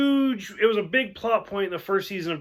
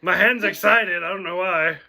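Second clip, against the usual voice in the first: mock pickup line; 4 dB louder than usual. Repeats quote as mock pickup line.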